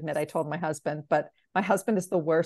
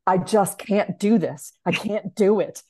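louder, slower pleading voice; as if he can't hold the secret in; husband unable to keep the award secret; bursting husband; 6 dB louder than usual. Retold or imitated. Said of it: "And he's like".

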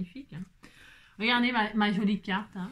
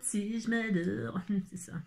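whisper; 5 dB quieter than usual. Real, not acted. Joking that she adores herself.

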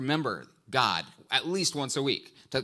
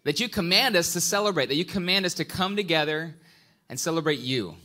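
prayer; 3 semitones lower than usual. Real, not acted. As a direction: pray aloud to the congregation. Opening prayer.

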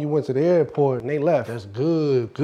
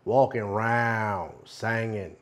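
hushed storyteller; 7 semitones lower, 8 dB quieter than usual. Acted. Storyteller recounting white man's trip to Africa, hushed and low. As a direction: spin the tale low and soft, pausing between phrases.

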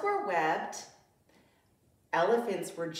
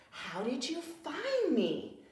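high, laughing with relief; 小狮子笑着问; laughing cub; 7 semitones higher than usual. Acted.

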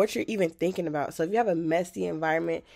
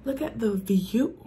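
slow hushed whisper; 4 semitones higher, slower than usual. Real, not acted. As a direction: breathe it out in awe. Awed by the view.

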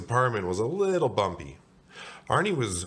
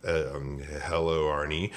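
low, hesitant greeting; halting, flustered man; stammering; 4 semitones lower than usual. Acted. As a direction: stumble into a wary hello. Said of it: "Mister Bing stammered".

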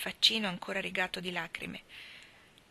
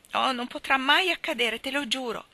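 sobbing; 6 semitones higher, 6 dB louder than usual. A narrator's reading. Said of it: "singhiozzò l'altra".

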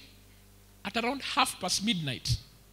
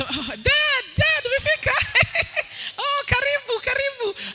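much higher squeaky falsetto with nervous laughs; nervous soprano voice; 5 dB louder than usual. Retold or imitated. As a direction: squeak out a panicked welcome to dad in falsetto. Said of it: "Ka voice yangu kaka kwa kasoprano".

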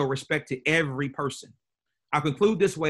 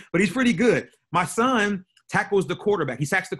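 higher and louder, leaning on pretty; proud emphatic repeat; 5 semitones higher, 4 dB louder than usual. Shown as a demonstration. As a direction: boast it louder now, pressing pretty. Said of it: "that's a joke, ladies and gentlemen".

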